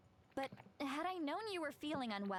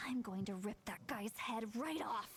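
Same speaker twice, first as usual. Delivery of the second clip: seething. Acted. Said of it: "struggling to control her temper".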